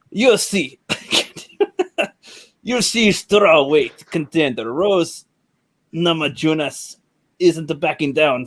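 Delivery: mock Russian accent drifting towards Indian; badly attempted Russian accent, read haltingly; Russian accent slipping into Indian. Shown as a demonstration. Reading the fighter article to the panel, Russian accent slipping into Indian. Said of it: "I'm getting Indian in there".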